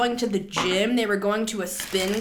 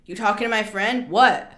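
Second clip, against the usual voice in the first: pissed-off challenge. Acted. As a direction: square up to someone bad-mouthing a friend. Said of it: "Like, I'm getting pissed".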